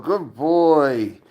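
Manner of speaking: slow, drawn-out fond praise. Real, not acted. Owner praising his cat slowly and fondly.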